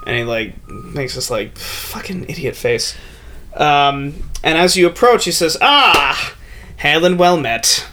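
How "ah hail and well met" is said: a hint of a grand royal greeting, higher; lightly voiced King Macbeth. King Macbeth receives the approaching players, mildly grand. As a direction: welcome them with mild kingly ceremony.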